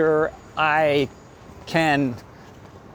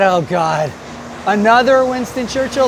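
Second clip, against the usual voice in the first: exasperated; 4 semitones higher, 4 dB louder than usual. Retold or imitated. Voices own exasperated reaction beforehand.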